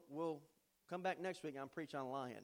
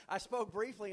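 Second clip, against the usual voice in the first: laughing; 3 semitones higher, 5 dB louder than usual. Shown as a demonstration. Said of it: "That's a miracle, isn't it?".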